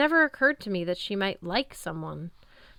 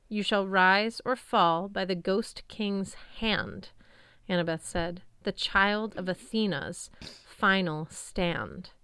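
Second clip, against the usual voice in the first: solemn recitation; slower than usual. A narrator's reading. Reciting a prophecy.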